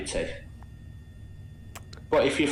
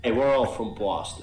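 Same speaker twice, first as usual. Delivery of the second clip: American Boston accent from a British speaker. Shown as a demonstration. Showing off the accent that fooled the host, Boston accent. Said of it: "I did a Boston accent".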